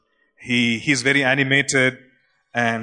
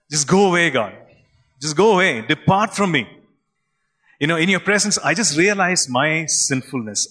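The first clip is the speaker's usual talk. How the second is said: raised, pleading cry to be left alone; anguished plea; 3 semitones higher than usual. Acted. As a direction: beg the Lord to depart, overwhelmed. Peter falls down before Jesus.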